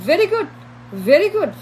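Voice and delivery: slow, drawn-out pretend flattery; slow mocking compliments; mock fawning praise. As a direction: act out world leaders gushing, slowly. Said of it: "handshake করে তাকে বলবে যে".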